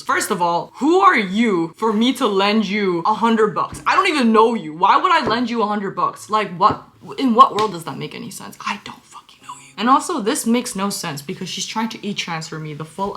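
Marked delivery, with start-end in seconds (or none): 0.0-8.6 indignant rant. Real, not acted. Ranting to viewers about the scammer, indignant and loud. 8.7-9.7 soft whisper; whispered aside. Real, not acted. Aside to viewers, a soft whispered jab.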